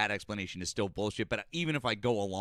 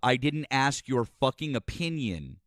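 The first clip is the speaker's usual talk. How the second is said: loud, raised-pitch rebuke; angry outburst; 4 semitones higher, 5 dB louder than usual. Real, not acted. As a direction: shout down the interrupter. Cutting off an interrupting debate opponent.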